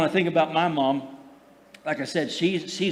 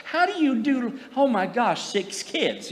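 high whispered gasp of disbelief, then settling down; "Six?" breathed up high, falling back to normal by "six kids"; shocked disbelief; 7 semitones higher, slower than usual. Retold or imitated. To his sister about her six kids, whispered, high shocked disbelief. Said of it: "I'm like".

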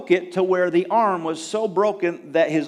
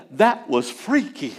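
laughing; 3 semitones higher, 6 dB louder than usual. Retold or imitated. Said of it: "my son said".

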